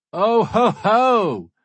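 put-on loud, high New Zealand accent gloat; New Zealand accent shout. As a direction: bellow it in a Kiwi accent. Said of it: "shouts one of the guests in a New Zealand accent".

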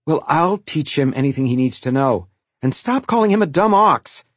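firm, rising to a high, loud order; stern scolding. A narrator's reading. Mother scolds older son.

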